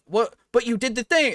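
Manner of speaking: high, indignant disbelief; baffled protest. Acted. Townsfolk protesting to the villain, high baffled disbelief. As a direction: act stunned that he won't take thanks.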